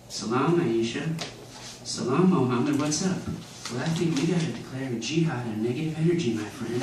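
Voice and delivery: a hint of a laid-back hippie, soft. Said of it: "like, a hippie voice".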